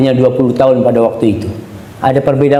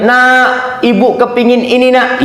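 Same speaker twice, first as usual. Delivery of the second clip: put-on higher, pleading old mother; mother's request; 9 semitones higher, slower than usual. Preacher plays an old mother asking her son, higher and pleading.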